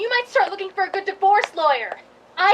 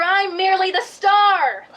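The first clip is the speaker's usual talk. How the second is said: sarcastic; 2 semitones higher, 3 dB louder than usual. Acted. Star's sarcastic outburst.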